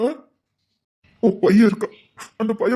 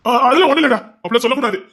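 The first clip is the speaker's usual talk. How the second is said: loud reassurance; 5 dB louder, faster than usual. Acted. Loud dismissal of self-blame.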